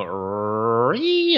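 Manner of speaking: short mimicked elk squeal; elk squeal demo. Shown as a demonstration. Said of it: "So I go, I kinda go".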